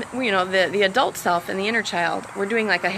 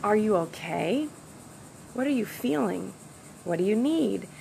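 gentle asking; 5 dB quieter than usual. Shown as a demonstration. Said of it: "just sitting with the child and saying".

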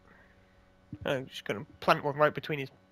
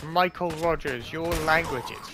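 auntie scolding; 2 semitones higher than usual. Retold or imitated. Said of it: "and she said".

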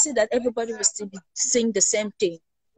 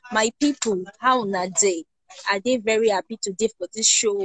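Pidgin English. Shown as a demonstration. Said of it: "What I said is that".

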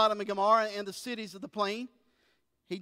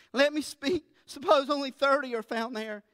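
Abraham bargaining with God, pitched higher and louder; pleading Abraham; 5 semitones higher, 4 dB louder than usual. Acted. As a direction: press God humbly but urgently.

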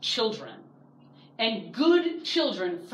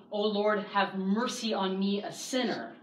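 humble plea. Retold or imitated. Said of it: "We come before God saying".

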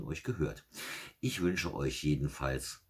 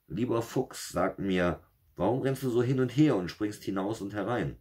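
greedy wolf; 8 semitones higher, 5 dB louder than usual. Acted. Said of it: "Sprach der Wolf".

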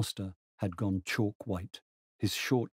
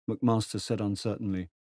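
plain reading voice

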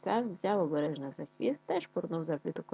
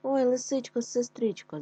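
higher, louder distressed cry; hedgehog crying out; 6 semitones higher, 3 dB louder than usual. A narrator's reading. Trapped hedgehog calls the fox for help, crying out. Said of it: "закричав бідолага".

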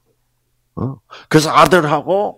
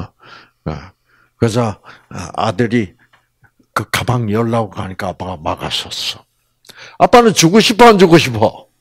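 ordinary talk

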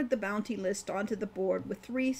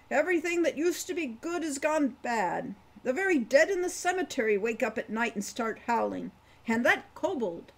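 put-on higher, louder voice for a rambling old dwarf; 4 semitones higher, 3 dB louder than usual. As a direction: play the chatty old dwarf, a bit louder. Wolfgang warns of bad times.

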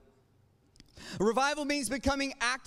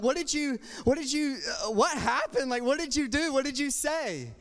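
mildly incredulous, higher-pitched questions; baffled questioning; 3 semitones higher than usual. Retold or imitated. Applicants quizzing the guy who got the job, acted bafflement. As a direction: lightly act out baffled, stumbling questions.

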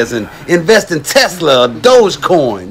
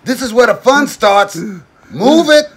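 higher yelling drill sergeant; 8 semitones higher than usual. Acted. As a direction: scream orders at the recruit.

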